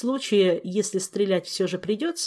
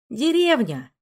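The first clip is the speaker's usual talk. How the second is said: tender amusement; 5 semitones higher, 5 dB louder, slower than usual. Acted. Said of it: "с умилением произнёс Жак".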